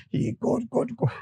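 panicked cry. Acted.

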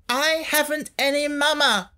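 high, half-hearted wail; weaker wail. A narrator's reading. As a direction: complain without force. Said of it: "her voice was not so strong".

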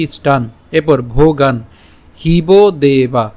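slow, careful হিব দেবা, each syllable set apart; Sanskrit pronunciation demo. Shown as a demonstration. Teacher showing students how ইষ্টান ভোগান is pronounced. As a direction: say ইষ্টান and ভোগান with clipped, unreleased endings. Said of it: "এর উচ্চারণটা কেমন হচ্ছে?".

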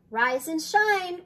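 high, loud, drawn-out wake-up call; slow, lifted morning holler. A narrator's reading. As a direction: sing out to rouse a sleeper. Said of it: "called Grandma Nan".

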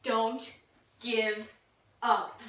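low, soft, word-by-word urging; subdued. Pretend. Player trying to make Jane laugh, low and halting. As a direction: say each word low with a long pause after. First take in laughing game.

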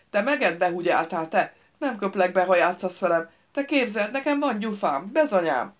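put-on loud childish bragging; lightly voiced fool, teasing and bargaining; village simpleton, boastful.

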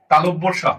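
"তালব্য সা" said distinctly, set apart as a model; standard pronunciation. Shown as a demonstration. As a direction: pronounce the letter name "তালব্য সা" carefully for learners. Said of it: "এটার উচ্চারণ হবে".

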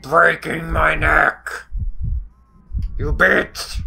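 loud, drawn-out protest at the game; shouted complaint at an attacker; exasperated shout. Real, not acted. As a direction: punch each word out loud and slow. Yells at game attacking character.

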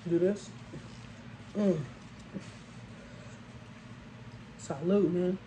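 chewing while talking; eating a burger; mouth full chewing. Real, not acted. Seen 0: Burger already bitten; jaw chewing through clip, new bite at 3.7.

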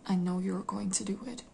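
imitating the shrink, hushed and near a whisper; quietly voiced conviction of a therapist; intense, knowing accusation. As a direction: drop to a soft, certain murmur. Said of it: "looking deeply into my eyes".

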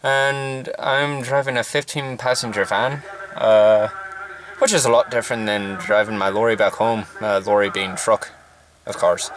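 put-on light Irish accent, loosely held. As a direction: chat casually in a mild Irish accent. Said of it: "I'll be doing an Irish accent right now".

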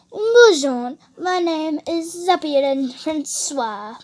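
slow, showy French-accent demonstration. Shown as a demonstration. Teaching how to do French, in a drawn-out French accent. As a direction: model a put-on French accent, stretching the name. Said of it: "You need to talk like this".

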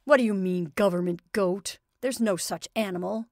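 irritated. Acted. Father scoffing at family.

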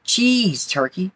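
high-pitched mock holler, falling away; storybook scolding call; hollering lunch lady. A narrator's reading. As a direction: holler it lightly, high on the first word. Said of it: "hollered the head lunch lady".

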